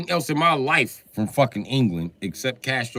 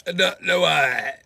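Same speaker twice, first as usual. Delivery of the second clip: loud exasperated repeat; 6 semitones higher, 6 dB louder than usual. Real, not acted. Repeated, second loud and high.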